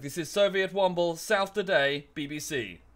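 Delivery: newsreader voice. Retold or imitated. Mock BBC presenter signing off the bulletin, high and loud. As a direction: announce it like a BBC regional presenter. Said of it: "That kind of newsreader voice".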